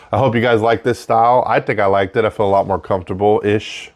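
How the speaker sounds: breathing audibly between phrases; audible breathing. Real, not acted. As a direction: take breaths you can hear as you talk. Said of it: "Sorry for the breathing".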